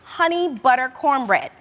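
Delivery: slow, savoured Southern accent. Shown as a demonstration. Cook naming her sweet cornbread dish, slow Southern accent. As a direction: stretch it out in a Southern drawl. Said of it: "say it with a Southern accent".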